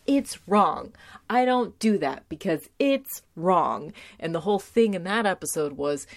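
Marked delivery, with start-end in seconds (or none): 0.1-3.9 louder, deliberately stiff practiced declaration; rehearsed line. Retold or imitated. Faith in Buffy's body rehearsing, mock earnest and louder. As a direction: say it like rehearsing in a mirror. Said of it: "practicing in the mirror saying".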